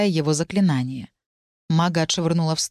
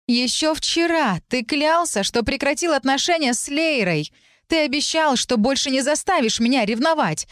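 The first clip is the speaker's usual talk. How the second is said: put-on a dragon faking a jealous girl's outburst; jealous shout; 8 semitones higher than usual. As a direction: hurl the accusation pitched high. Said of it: "выкрикнул дракон моим голосом".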